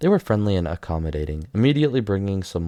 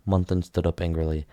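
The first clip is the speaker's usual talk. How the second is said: plain reading voice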